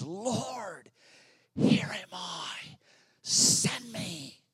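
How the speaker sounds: Isaiah's bold answer, pitch lifting high; a prophet volunteering, lifted and bold; bold cry. A narrator's reading. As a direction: offer yourself boldly to the Lord. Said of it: "cries out in such boldness".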